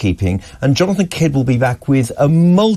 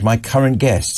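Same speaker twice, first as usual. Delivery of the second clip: usual speaking voice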